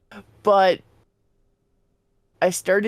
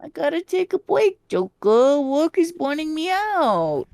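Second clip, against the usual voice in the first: Morgana voice; 7 semitones higher than usual. Retold or imitated. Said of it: "in the Morgana voice".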